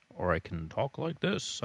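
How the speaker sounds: dropped-down, contained voice. Shown as a demonstration. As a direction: bring the pitch back down low. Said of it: "My voice can fluctuate if I want".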